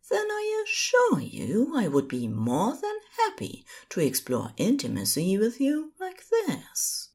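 high, fading to a whisper. Acted. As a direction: whisper the tender promise. Angel offers intimacy.

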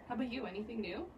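talking around a sip of water; while sipping a drink. Real, not acted. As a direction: mouth on a glass of water. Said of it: "I'm sorry, I'm drinking water".

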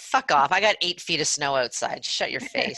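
half-joking irritation. Real, not acted. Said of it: "Tell us how you really feel".

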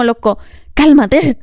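slow, deliberate "cálmate" to a shouter; calm them down slowly; slow, imitated soothing; mock calming. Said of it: "Es como".

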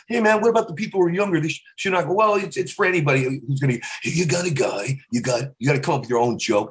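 lightly voiced ranting comedian; a hint of Carlin's rant; George Carlin impression. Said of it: "I almost got George Carlin down".

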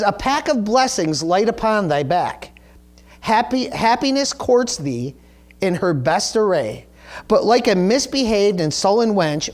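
measured, deliberate play reading; formal recitation of old verse; reading verse aloud. Acted. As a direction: recite the old lines phrase by phrase, with pauses. Reads the play's verse.

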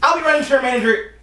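a hint of a prim white guy; lightly voiced complaining Karen type. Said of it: "White voice, please".

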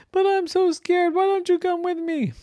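put-on high, begging child; pleading Jenny. Jenny asking her brothers to come, high and pleading. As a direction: beg them along.

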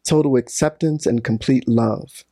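measured, solemn reading of a passage; reading aloud. Acted. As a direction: read it like a sacred text.

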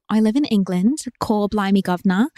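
hammed-up English accent; put-on English accent. Reading an English listener's confession, put-on English accent. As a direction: try a stock English accent, cor-blimey style. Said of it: "my Australian with my Eng-, my English".

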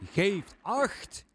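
"Geeft acht!" called out high with soft, non-rasping Gs; high command call on "Geeft acht!", every G softened; soft-G drill command. Retold or imitated. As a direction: imitate a sergeant's high-pitched "Geeft acht!" with gentle southern-style Gs. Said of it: "in het schreeuwen van de commando's altijd de zachte G gebruikte".

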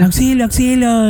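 high-pitched mock radio plea; grito de auxilio imitado. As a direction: act out a distress call without really yelling. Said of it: "empieza el chilladero en el radio". (auxilio agudo, imitando el radio)

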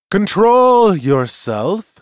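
high, loud, drawn-out command; stern rebuke. Acted. Seer rebukes the furious accuser, stern. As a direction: pull the shouter into line.

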